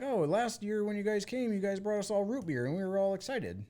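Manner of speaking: bubbly retold local voice; imitating the lady. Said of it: "She's like".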